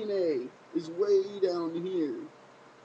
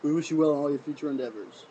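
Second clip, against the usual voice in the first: imagined Triple H; 3 dB louder, slower than usual. Pretend. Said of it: "He said".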